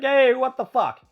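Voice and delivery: high, loud mock outburst at the receipt; shocked outburst. Fan reading his credit card receipt, loud shocked outburst. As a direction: yelp it like you just saw the bill. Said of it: "be like".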